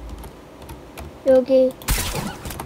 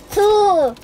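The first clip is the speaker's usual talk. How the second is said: 신나게 카운트다운; 5 semitones higher than usual. Real, not acted.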